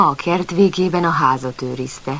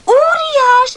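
much higher, loud, thrilled shout; delighted cry; 8 dB louder than usual. Acted. Puppy overjoyed that the monster is a giant, delighted cry. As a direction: cheer the word like great news. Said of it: "örült Pamacs".

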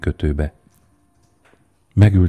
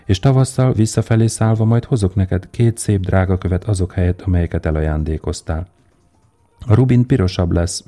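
dreamy swallow; 3 semitones higher than usual. Acted. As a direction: paint warm Egypt for the prince, lightly lifted.

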